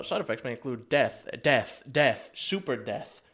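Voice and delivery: drug ad disclaimer voice. Retold or imitated. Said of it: "people who gives you the warnings at the end of commercials".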